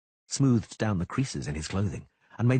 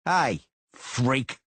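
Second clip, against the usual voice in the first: taunting call; 5 semitones higher, 4 dB louder than usual. A narrator's reading. Thug calls out in street.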